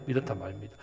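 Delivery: ordinary delivery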